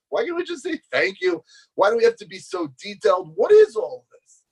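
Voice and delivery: high-pitched, mounting frustration; exasperated protest. Retold or imitated. Boy questioning detailed blessings, exasperated protest.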